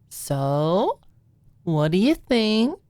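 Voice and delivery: put-on high, hopeful girlish voice rising; eager question. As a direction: fish for praise with bright eagerness. Maud awaiting Alicia's reaction.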